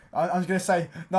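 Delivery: breathy hushed excitement; excited whisper. Real, not acted. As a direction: whisper it giddily. Excited whisper while laughing.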